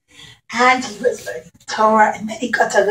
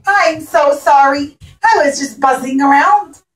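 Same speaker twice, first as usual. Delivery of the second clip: apologetic bee; 3 semitones higher, 3 dB louder than usual. Acted. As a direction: plead sorry like a small bee. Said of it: "the bee said".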